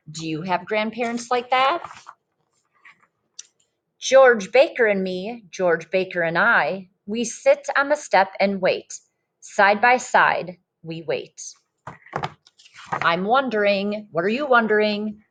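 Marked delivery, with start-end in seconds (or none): 4.0-11.4 lively storybook read-aloud voice; reading to children. Acted. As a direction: read it like a picture book to a class. Teacher reads picture book aloud.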